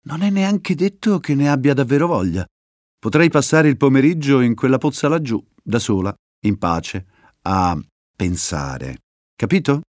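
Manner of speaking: a hint of a hoarse, clucking mutter; lightly croaky, sulky warning. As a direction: grumble it like a cross old hen. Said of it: "E aggiunse con voce chioccia".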